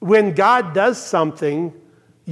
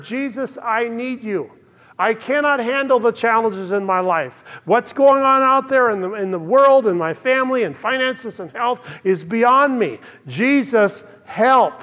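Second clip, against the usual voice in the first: higher-pitched, earnest plea to Jesus; pleading prayer; 4 semitones higher than usual. Acted. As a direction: plead for help, building in volume midway. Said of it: "So a simple prayer of".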